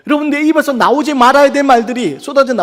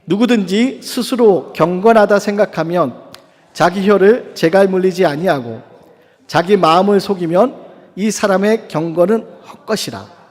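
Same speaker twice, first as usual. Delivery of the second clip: measured congregational reading aloud; scripture reading. Acted. Preacher leading the congregation in reading a verse, scripture reading. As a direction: read the verse out deliberately, phrase by phrase.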